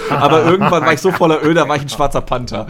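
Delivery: laughing. Real, not acted. Joking while laughing.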